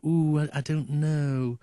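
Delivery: doubtful. Retold or imitated. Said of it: "they go".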